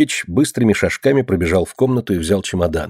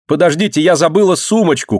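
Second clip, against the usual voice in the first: high, urgent call to wait; sudden cry; 8 semitones higher, 3 dB louder than usual. A narrator's reading. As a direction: cry out as if just remembering. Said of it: "крикнула вдруг Марина". (внезапный высокий возглас)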